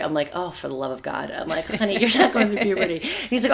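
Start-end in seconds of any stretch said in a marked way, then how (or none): 0.3-1.3 exasperated. Retold or imitated. Exasperated mom reply to son. 1.8-2.9 laughing. Retold or imitated. Mom laughing at son.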